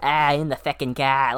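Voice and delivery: put-on lightly done thick Boston accent; a hint of a Boston guy mocking the accent; Ben Affleck Boston accent. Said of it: "a stereotypical Boston impression".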